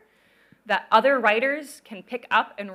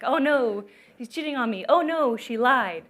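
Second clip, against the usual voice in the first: a touch of melodrama, slowing on the last line; mock soap opera drama; 3 semitones higher, 3 dB louder than usual. Teacher mimics a foreign soap opera scene, mildly melodramatic. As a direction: play it like a light parody of a soap heroine. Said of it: "it's really dramatic".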